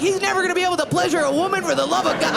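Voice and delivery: high taunting yell; mock yell. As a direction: shout the taunt after them. Yelling at departing family.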